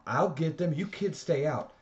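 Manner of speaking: put-on a man shouting at the boys near the fire; loud order. A narrator's reading. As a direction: order the kids to stay out. Man orders kids back.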